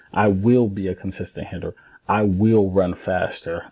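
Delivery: firm affirmations leaning on each "will"; strong, determined. Shown as a demonstration. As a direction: declare each goal with determination. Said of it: "the way I'm saying it is strong, determined".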